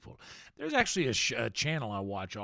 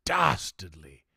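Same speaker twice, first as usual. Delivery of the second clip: mock posh accent; 5 semitones lower, 7 dB louder than usual. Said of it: "in this accent".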